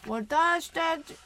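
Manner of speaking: put-on English-accented Japanese. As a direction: mimic a foreigner speaking Japanese. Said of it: "英語なまりの日本語".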